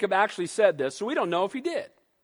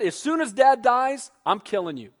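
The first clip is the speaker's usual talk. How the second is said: menacing threat. Retold or imitated. Esau threatens brother Jacob.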